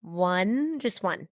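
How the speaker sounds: put-on whiny kid. Child begging mom for ice cream.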